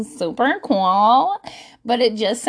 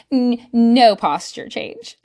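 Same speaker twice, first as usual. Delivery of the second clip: laughing; slower than usual. Real, not acted. Laughing admission about own posture.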